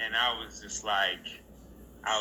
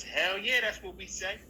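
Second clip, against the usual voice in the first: higher-pitched passing endorsement; wardrobe girl; 8 semitones higher than usual. Retold or imitated. Wardrobe girl backing the actor's line in passing, high and approving. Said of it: "the girl from wardrobe is walking by".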